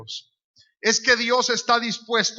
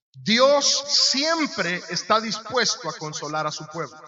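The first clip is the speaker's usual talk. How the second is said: slow, deliberate, every word weighed; slow emphatic statement; slower than usual. Shown as a demonstration. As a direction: lay it down slowly so it sinks in. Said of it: "Yo quiero que usted sepa algo". (despacio y con peso, palabra por palabra)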